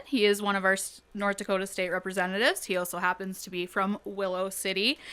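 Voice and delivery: even, read-out delivery; reading aloud. Real, not acted. Teacher sharing a student's field trip write-up, reading it aloud. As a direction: read a written account aloud, letting sentence ends drop away. Reads a student's written account.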